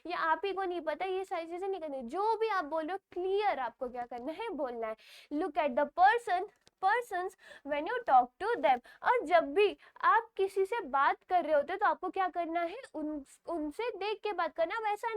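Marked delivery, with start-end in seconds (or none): 5.3-8.8 reads the rule slowly, word by word; slow reading aloud; slow textbook reading. Shown as a demonstration. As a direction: dictate it slowly for students. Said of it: "reads textbook rule".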